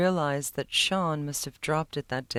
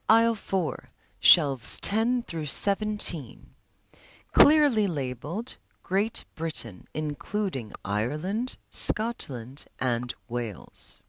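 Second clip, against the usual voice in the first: insistent. Acted. Librarian retorting insistently.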